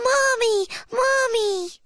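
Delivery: put-on very high, delighted child-bear call; happy little cub. A narrator's reading. Little bear runs up to Mom, very high happy cub voice. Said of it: "so happy that he runs up to her".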